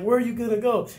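high, loud retold yell; taunting shout. Instructors calling after a recruit walking out: high mocking shout. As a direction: call after him mockingly.

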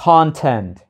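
"Content" with the weight on CON; stress first syllable. Shown as a demonstration. Teacher shows students "Content" stressed on CON. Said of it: "Nhấn âm tiết đầu tiên".

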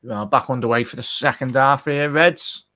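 punchy kick-off announcement, rising on Reds. Real, not acted.

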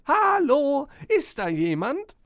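high, very loud drawn-out hallo; loud call. A narrator's reading. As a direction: call out for anyone within earshot. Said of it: "rief laut".

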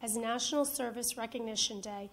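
official decree reading; formal proclamation reading. Acted. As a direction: read it like a ceremonial decree. Mayor reads second proclamation.

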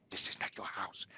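hushed whisper right into the ear; imitated whisper. Mother-in-law to him behind his wife's back, imitated whisper. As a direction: whisper it like a secret jab. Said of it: "she whispered in my ear".

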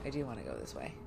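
low, soft put-on voice answering herself; silly low voice. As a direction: rumble the answer back to yourself.

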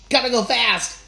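loud, high rallying cry; excited shout. Acted. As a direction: yell it out as he jolts awake. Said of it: "Sonic shouted".

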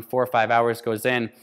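ordinary delivery

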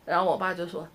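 ordinary talk, nothing marked

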